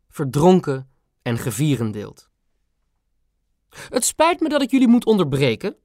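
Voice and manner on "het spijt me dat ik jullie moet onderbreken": high, clipped royal voice; a queen's crisp staccato interruption. A narrator's reading. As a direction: bite off each word like a stern queen. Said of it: "met haar staccato klinkende stem".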